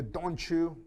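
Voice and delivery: "don't you" blended into "donchu"; ch sound. Shown as a demonstration. Teacher demonstrating linked speech, "don't you" as "donchu". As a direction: let the t and y fuse into ch in "don't you". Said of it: "notice the pronunciation is like a ch sound".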